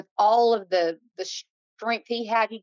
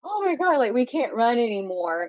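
breathless panic; 3 semitones higher than usual. Retold or imitated.

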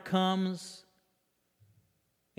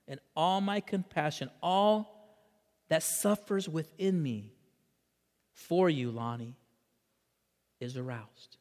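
tender plea. Acted. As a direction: let the plea sink into tenderness. God's plea softened by preacher.

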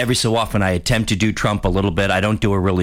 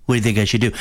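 Trump impression; much faster than usual. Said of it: "looks at a reporter and says".

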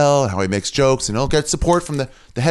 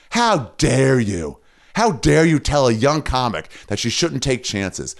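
slow, drawn-out outrage; deliberate, weighty rebuke; indignant scolding; slower than usual. Real, not acted. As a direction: stretch the words out in real indignation. Berating a sellout comic directly.

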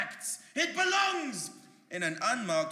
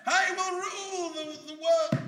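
loud high power-mad shout; megalomaniac rant; 8 semitones higher, 6 dB louder, slower than usual. Acted. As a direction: tempt her to rule with you.

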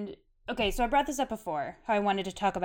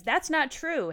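mild yell; 8 semitones higher, slower than usual. A narrator's reading. Harry denying it in the Shrieking Shack, mild high yell. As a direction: read a restrained yell, pitched up. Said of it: "Harry yelled".

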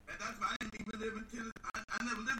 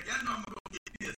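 plain; faster than usual. Retold or imitated. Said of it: "give me a sec".

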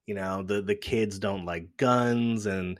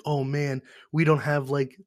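higher, mildly fretful imitation; mock worry; 4 semitones higher than usual. Film characters fretting over missing lease paperwork, mock worry. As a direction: imitate someone making a fuss over a small problem. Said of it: "they were all worried".

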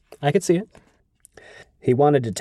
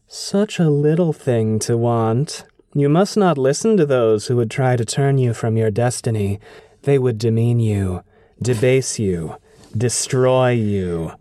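Lanfear voice. Acted. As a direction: coax him like a femme fatale. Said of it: "your Lanfear voice".

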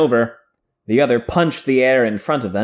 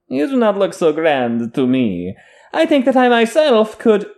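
sneering; 9 semitones higher than usual. A narrator's reading. Host voices the sneering Tarabonner.

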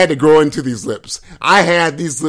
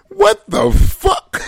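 mock shock; much slower than usual. Real, not acted. Reacting to his own impression.

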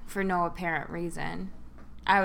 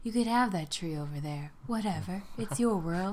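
lightly soothing painter impression; a hint of gentle, easygoing reassurance; Bob Ross. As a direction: imitate a calm painting teacher, mildly. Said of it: "his voice is very soothing".

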